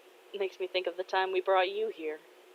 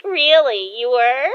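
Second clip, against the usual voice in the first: loud, high, rising surprise; astonished; 6 semitones higher, 10 dB louder than usual. Acted. Daughter learning dad was jealous, astonished. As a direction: question it with amazed delight.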